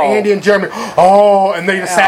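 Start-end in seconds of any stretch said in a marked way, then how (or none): 1.0-1.5 mock shocked reaction. Imitates friends' loud reaction to spitting.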